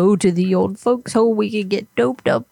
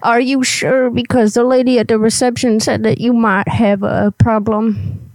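lightly voiced cranky old granny; a hint of a testy old lady. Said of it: "I gotta get my old granny voice up here".

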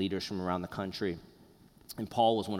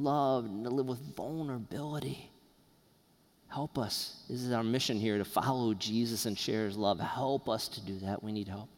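pastoral prayer. Acted. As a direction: pray gently for the congregation. Leads a closing prayer.

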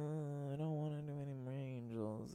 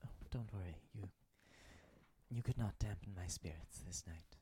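hushed, solemn celestial figure; gentle angel voice; 4 semitones lower, 4 dB quieter than usual. Acted. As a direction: speak softly like a wise angel. Angel reassures Yolanda.

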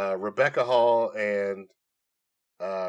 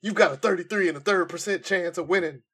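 high, loud trash-talk promo; wrestling promo; 7 semitones higher, 3 dB louder than usual. Pretend. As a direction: cut a promo like Scott Steiner. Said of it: "cut a promo doing the Steiner maths".

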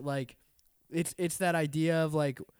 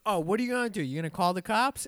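higher, mock-confrontational retort; raised, goading voice of a retold quarrel; retold taunting challenge; 4 semitones higher, faster than usual. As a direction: imitate an angry driver challenging you. Retold angry woman in quarrel.

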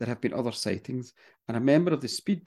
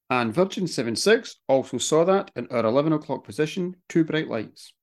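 pilot voice; 3 semitones higher than usual. Retold or imitated. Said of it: "it's your turn for the pilot voice".

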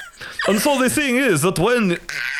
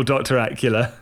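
low voice; 9 semitones lower than usual. Acted. Pun name said low.

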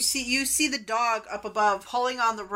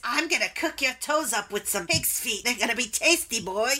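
lightly voiced goblin villain; goblin woman threatening. Goblin woman threatens to eat her foe, mildly menacing. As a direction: relish the threat, lightly in character. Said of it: "She says".

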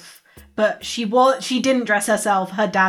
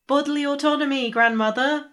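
higher-pitched, earnest reproof; chiding a relative; 6 semitones higher than usual. Acted. Grandchild reminding grandmother about asking permission, higher chiding tone. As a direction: scold politely but insistently.

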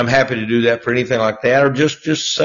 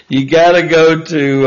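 words through a laugh; chuckling while talking; 4 semitones higher, 4 dB louder than usual. Real, not acted. Laughing mid-sentence.

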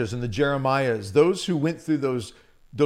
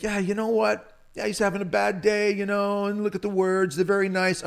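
lightly raised, breezy dismissal; glib, dismissive reading; 6 semitones higher than usual. Retold or imitated. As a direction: brush it off like nice words. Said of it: "read that passage and think".

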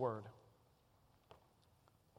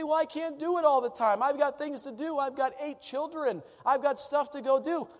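excuse-making objector; 5 semitones higher than usual. Acted. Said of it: "You say".

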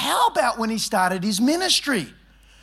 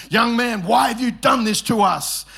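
mock upset mother; 2 semitones higher than usual. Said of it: "when you say young man, that means you're upset".

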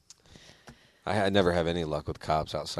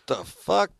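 startled exclaim; 11 semitones higher than usual. Retold or imitated. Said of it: "I'm like".

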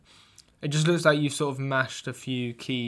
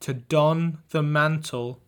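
ominous reading; slower than usual. Pretend. Reading a note written in blood.

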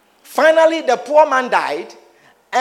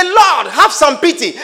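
a touch of pleading, higher and louder; mock crying plea; 4 semitones higher, 4 dB louder than usual. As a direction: imitate a sinner begging. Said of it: "cry and say".

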